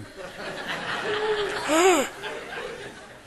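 high gasping laugh at own mistake; startled laughing gasp; surprised gasp. Real, not acted. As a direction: catch the slip with a gasp.

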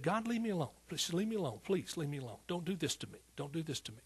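imitated weeping appeal, understated; retold tearful plea. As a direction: replay a pleading protest, repeating it helplessly. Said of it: "I was crying. I was just weeping".

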